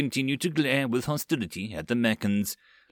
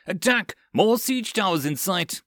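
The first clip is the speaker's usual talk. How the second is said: alarmed yell; 8 semitones higher than usual. A narrator's reading. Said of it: "someone yelled".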